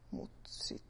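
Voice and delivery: hushed whisper. Real, not acted. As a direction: drop to a secretive whisper. Trailing into secret.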